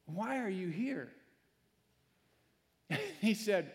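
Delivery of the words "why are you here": hushed voice of God. Acted. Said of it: "and God says".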